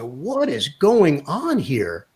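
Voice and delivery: slow, drawn-out disbelief; retold bafflement, stretching each word; bewildered. Passenger to himself as star players board, bewildered.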